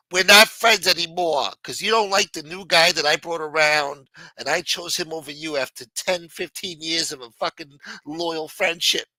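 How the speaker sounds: angry ex-friend. Acted. Angry side of pretend call.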